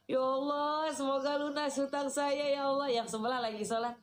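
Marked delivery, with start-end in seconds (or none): 0.0-2.9 loud, higher-pitched prayer, like blurting it out in the mosque; loud careless prayer; praying out loud. Retold or imitated. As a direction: pray too loudly for the people beside you to bear. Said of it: "Di masjid ngomongnya kencang-kencang".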